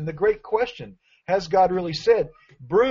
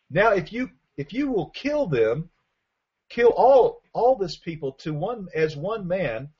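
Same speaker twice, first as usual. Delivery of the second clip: urgent plea; 4 semitones higher than usual. Acted. Preacher voicing Moses begging God, urgent rising plea.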